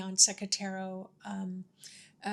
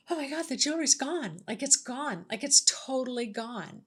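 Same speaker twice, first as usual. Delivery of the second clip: higher-pitched retold dismay; lightly panicked, pitch lifted, retelling the shock; mock alarm; 4 semitones higher than usual. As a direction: exclaim it in playful, rattled disbelief. Retold alarm at missing jewelry.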